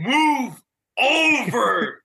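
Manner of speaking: drawn-out high yell; mock screaming. Friend mimics Glazer yelling at slow drivers, high drawn-out yell. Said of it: "he's just screaming".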